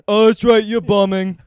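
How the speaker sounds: high, loud delighted cry; hammed-up thrill at the vibrations; excited deaf fan. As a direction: deaf audience member cheering the comic. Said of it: "and he goes".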